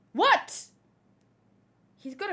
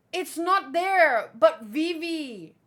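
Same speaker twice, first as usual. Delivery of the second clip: excited; 4 semitones higher, 8 dB louder, slower than usual. Real, not acted. Excited fan pleading over character.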